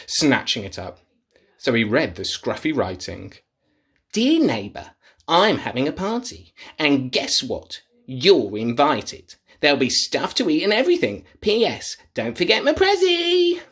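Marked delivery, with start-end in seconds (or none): 4.1-13.6 lightly voiced cheery party host; invitation voice. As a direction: read it like a sing-song invite. Troll reads invitation.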